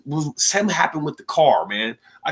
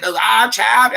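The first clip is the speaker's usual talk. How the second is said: imitating Southern aunt; 7 semitones higher, 4 dB louder than usual. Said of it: "they start talking that".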